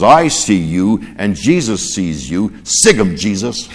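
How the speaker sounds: slow parrot voice breaking into a laugh; parrot's punchline. Acted. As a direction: deliver the parrot's line slowly, then laugh. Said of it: "the parrot speaks and he says".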